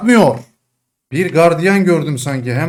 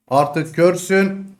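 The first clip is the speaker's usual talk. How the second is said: P=A; slower taunt; 2 semitones higher, much slower than usual. Shown as a demonstration.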